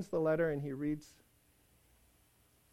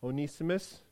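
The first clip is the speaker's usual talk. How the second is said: stern; 3 semitones lower, 4 dB quieter than usual. Acted. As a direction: call him to account. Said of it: "looks at me sternly".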